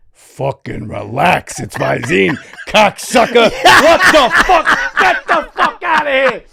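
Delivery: building from loud drawn-out exasperation to high screaming; hammed-up exploding friend; mock furious outburst. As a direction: yell him away, laughing through the rage. Acted quarrel, friend's outburst.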